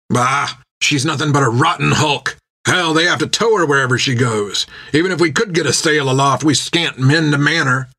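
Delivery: lightly voiced gruff-tempered captain scoffing; scoffing captain Jack. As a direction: wave the idea away with scorn.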